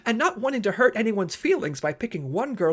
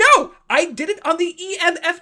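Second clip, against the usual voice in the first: much higher, loud; indignant shout; 7 semitones higher, 5 dB louder than usual. Acted. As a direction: yelp a wounded denial. Defensive outburst.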